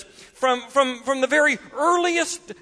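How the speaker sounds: desperate. Acted. Father desperately telling Jesus about his son, pleading. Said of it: "in utter desperation says".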